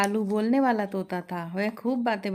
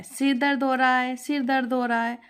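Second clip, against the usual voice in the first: parrot mimicking; 4 semitones higher than usual. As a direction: parrot aping the mother-in-law. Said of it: "Kalu के तभी नकल उतारता है". (सास की नकल करता तोता)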